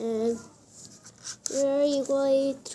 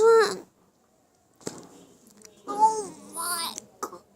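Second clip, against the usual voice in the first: sour face; 4 semitones higher than usual. Real, not acted. Disgust after tasting.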